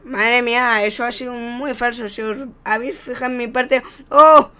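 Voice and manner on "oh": sudden loud "oh!" of shock; surprised gasp. Real, not acted. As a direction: blurt it out in surprise. Exclaiming at a sudden move.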